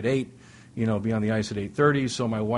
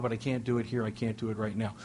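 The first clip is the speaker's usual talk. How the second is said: softer, fading "I can't do it"; quoting wife; 6 dB quieter than usual. Retold or imitated. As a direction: let her voice sink, quiet. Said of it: "She goes".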